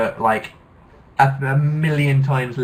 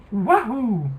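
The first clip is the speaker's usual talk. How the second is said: excited whoop; 11 semitones higher than usual. Pretend. Playful cheer.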